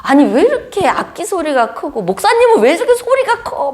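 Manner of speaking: mock complaint. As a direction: whine about the noise, half laughing. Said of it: "불평 이렇게 나요".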